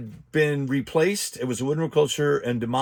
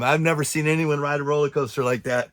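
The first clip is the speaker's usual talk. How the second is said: breathless, panting between words; out of breath. Real, not acted. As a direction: talk while catching your breath. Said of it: "I'm all out of breath".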